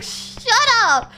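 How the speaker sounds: laughing mock protest; giggling shut up. Real, not acted. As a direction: snap it back through a laugh. Laughing retort to a taunt.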